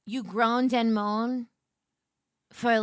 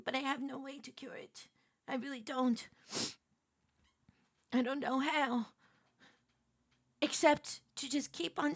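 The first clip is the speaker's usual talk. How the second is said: hushed confession; 7 dB quieter than usual. Acted. Mock confession, quiet apology.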